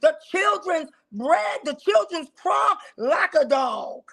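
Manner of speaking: high, preachy scolding; lightly voiced Jesus rebuking; preaching Jesus. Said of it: "she said".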